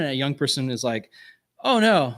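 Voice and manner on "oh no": high-pitched mock disavowal; flustered denial. Young person denying faith to peers, mock flustered.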